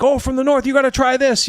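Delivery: spice vendor. Acted. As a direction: push the spice in a high sales voice. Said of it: "he's like".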